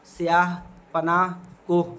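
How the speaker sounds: स्याह, पनाह, कोह each ending in audible h; careful separate examples स्याह, पनाह, कोह with final h; sounded final h. Shown as a demonstration. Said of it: "जिसका तलफ़ुज़ किया जाता है".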